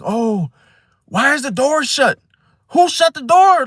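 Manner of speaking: hammed-up bitchy complaint, rising high. Imitating a Virgo complaining about everything, bitchy. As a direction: climb in pitch as you gripe. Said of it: "Very, like, bitchy, like".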